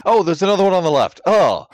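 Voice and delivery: sudden high, loud surprise; surprised. Real, not acted. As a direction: blurt it out, caught off guard. Spotting a second picture.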